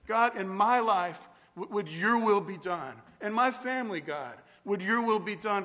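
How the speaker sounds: modelling the Lord's Prayer; spoken prayer demo. Shown as a demonstration. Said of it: "but something like this".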